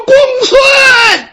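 high, loud call down the street; yelling at full voice. Acted. Servant yells after the departing scholar, full-voiced shout. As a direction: shout after him from far off. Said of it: "包兴扯着嗓子就喊".

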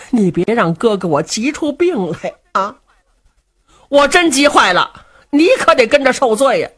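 lightly voiced fat man, anxious and wheedling; fat brother coaxing. Du Cha wheedles Luo Cheng to help, anxious. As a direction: coax him, playing on his pity.

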